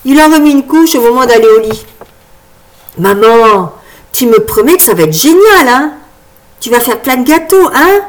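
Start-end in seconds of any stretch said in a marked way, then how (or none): 3.0-8.0 put-on coaxing child, slightly louder; child's voice. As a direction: wheedle mum like a small child. Child pleading at bedtime.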